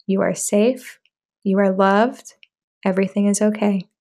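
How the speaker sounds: steady even calming voice with no emotion; monotone, emotionless. Shown as a demonstration. Parent calming a dysregulated child, monotone and emotionless. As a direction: keep it level and flat, soothe without feeling. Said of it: "try to use your best monotone, emotionless voice".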